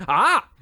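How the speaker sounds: hammed-up gasp of relief. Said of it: "or an alternative exclamation".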